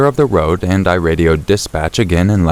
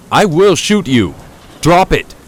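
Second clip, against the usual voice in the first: much higher, louder, slow warning shout; desperate yell; 11 semitones higher, 3 dB louder than usual. A narrator's reading. Wounded officer warning advancing attacker, much higher slow yell. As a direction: scream the final warning. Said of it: "I yell again".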